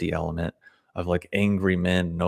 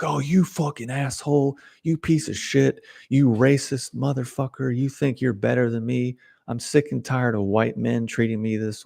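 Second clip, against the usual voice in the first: higher pitched, heated mock tirade at the dealer; furious scammer rant; 5 semitones higher than usual. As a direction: rant like the cornered scammer turning on him. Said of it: "And the guy's like".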